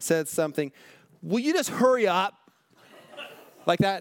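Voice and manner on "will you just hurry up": mock cold, harsh, unsympathetic, pitched-up voice. Retelling what a friend finally said to a man who kept going, imitating a harsh, unsympathetic tone. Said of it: "with the most unsympathetic, harsh tone".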